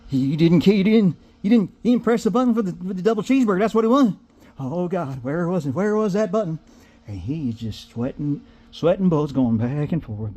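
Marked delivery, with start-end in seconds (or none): 0.1-6.6 mock panic, voice pitched higher; panicked trainee. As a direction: fumble in a light mock panic.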